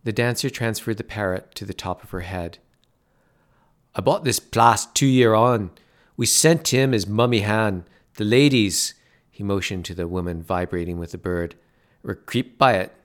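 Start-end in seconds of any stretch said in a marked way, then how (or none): 3.9-12.9 bar owner. Acted. Bar owner explains, local voice.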